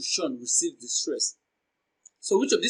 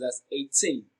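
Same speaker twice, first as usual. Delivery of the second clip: put-on eighteen with "teen" held longer; stress on TEEN; 2 semitones lower, 3 dB quieter than usual. Shown as a demonstration. Teacher breaking eighteen down for learners, stress on TEEN. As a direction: lean on the second syllable, "teen", in eighteen. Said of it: "Teen receives the stress".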